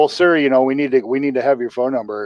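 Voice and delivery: lightly voiced clerk, pitched a touch up; insistent store clerk. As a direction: politely press the customer, as a retold quote. Retold store clerk insisting to dad.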